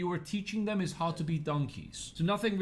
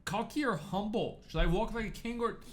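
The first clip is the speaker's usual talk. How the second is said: confused viewer; 6 semitones higher than usual. Acted.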